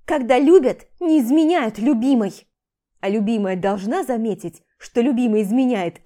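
loud, bitter accusation; angry reproach. Acted. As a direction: rub his betrayal in. She accuses husband. (громкий горький упрёк)

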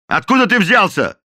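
loud, high hostile question; the captain demands to know where the cook is from. A narrator's reading. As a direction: interrogate him roughly.

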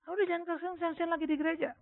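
high-pitched annoyed protest, mildly acted; retold irritation. Son objects to mother's tearful church testimony, retold irritation. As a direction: imitate a fed-up son's complaint. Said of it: "oh, saya paling marah".

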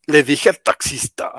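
slow, lightly put-on dubbed delivery; dubbing actor. Imagining the Spanish dub of the song, lightly mock dubbing actor. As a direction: declaim it slowly like a dubbing actor. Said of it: "con el actor de doblaje diciendo".

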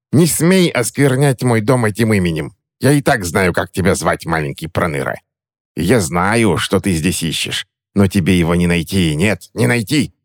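high furious hag voice; raging crone. Acted. Witch rages at the boy about his name, high and gloating.

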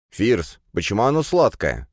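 put-on surprised young man asking about the milk; surprised question. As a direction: taste the milk and wonder. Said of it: "удивлённо спросил Кирилл".

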